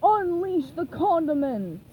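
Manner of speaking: loud, slow battle cry; rally the troops over the radio; Mister Krabs shouting the charge; shouted command. A narrator's reading. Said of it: "Mister Krabs shouted".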